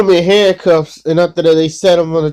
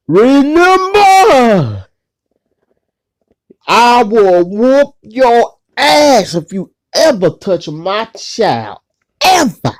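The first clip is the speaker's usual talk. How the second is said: stern dad threat; 5 semitones higher, slower than usual. Retold or imitated. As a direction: threaten him slowly like a protective father. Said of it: "Dad said this".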